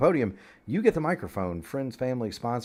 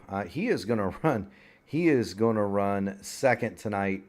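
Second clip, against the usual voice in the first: breathless after laughing; out of breath; 2 semitones lower, 6 dB quieter than usual. Real, not acted. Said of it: "I'm out of breath".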